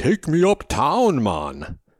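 thick, sing-song put-on Jamaican accent. Retelling talking to a Jamaican cab driver, in a thick Rastafarian accent. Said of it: "muster a thick Rastafarian accent".

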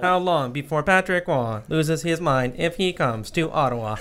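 mechanical, robotic reading voice. Podcast host reading a listener's question aloud, in a robot voice. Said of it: "I should read the question in a robot voice".

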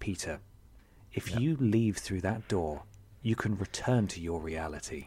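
very quiet deep voice. Narrating a game scene, voicing a woman addressing the player's character in a much deeper voice. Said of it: "in a much deeper voice".

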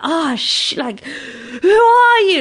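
very slow, high, drawn-out scream. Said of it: "screaming outside".

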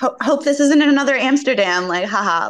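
put-on snide, passive-aggressive jab with tacked-on laugh. Retelling how a friend kept bringing up an old grievance: imitating a passive-aggressive remark. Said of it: "a really passive aggressive way".

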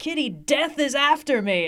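mock yell of sheer desperation, high, drawn-out. Retelling a character calling out while holding the map: imitating a desperate yell. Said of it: "in desperation yells".

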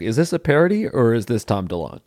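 usual speaking voice

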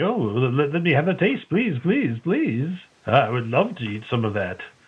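stumbling, very excited, eager, pleading voice. Voicing a king begging for a taste of the food: very excited king. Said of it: "the king seems very excited".

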